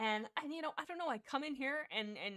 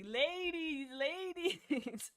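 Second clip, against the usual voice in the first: higher, lightly put-on smug "ladies"; smug hero; 6 semitones higher, much slower than usual. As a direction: play it cool like a celebrity waving off fans. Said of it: "she's like".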